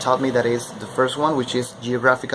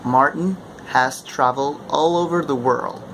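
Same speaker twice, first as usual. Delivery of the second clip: General American read with strong rhotic R; American accent. Shown as a demonstration. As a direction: say it the American way, R with the tongue. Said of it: "That would be American accent".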